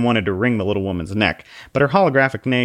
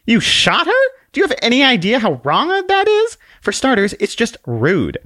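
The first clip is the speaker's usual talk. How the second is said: high, louder indignant little lady; high prim scolding; 5 dB louder than usual. Acted. Book scolds the man for shooting, high and indignant. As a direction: scold him like a shocked governess.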